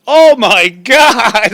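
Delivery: loud, slow, laughing oh my God; shrieking with laughter at being exposed; laughing exclamation. Retold or imitated. Dog reading outs her secrets.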